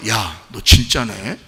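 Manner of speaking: slow, low, softened imitation of a companion; impressed onlooker. Companion recognising a true believer, low impressed murmur. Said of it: "그 사람을 뭐라고 하겠어요?".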